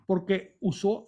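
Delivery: usual speaking voice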